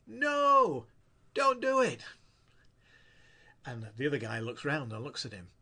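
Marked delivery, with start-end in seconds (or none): 0.1-2.0 big high shout to stop a jumper. Retold or imitated. Man on bridge shouting to stop the jumper, loud alarmed shout. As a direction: yell it out in alarm. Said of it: "the first man shouts out".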